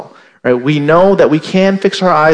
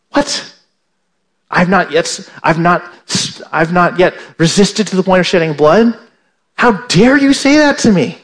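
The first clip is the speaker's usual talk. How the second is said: mock outraged disbelief. Preacher voicing a listener offended by the verse, mock outrage. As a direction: act out the affronted reader at the verse. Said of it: "and you're saying".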